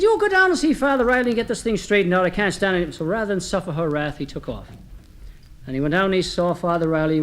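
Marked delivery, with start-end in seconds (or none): 0.0-2.9 mildly exasperated, higher-pitched wife; wife losing control. Acted. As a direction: lay down the law as a fed-up wife. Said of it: "she lost complete control of herself".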